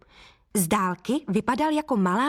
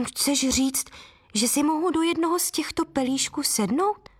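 hesitant; 6 semitones higher than usual. Acted. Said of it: "zeptala se váhavě".

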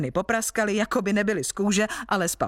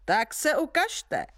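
higher giant's challenging call; giant shouting; 9 semitones higher than usual. A narrator's reading. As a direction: dare them to come out. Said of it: "křičel obr".

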